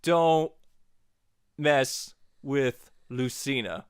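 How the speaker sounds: long pause after don't, then mess with Lucina slow; slow, weighty closing warning; dramatic pause. Real, not acted. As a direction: hold a beat on don't and land the rest slowly. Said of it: "and most importantly".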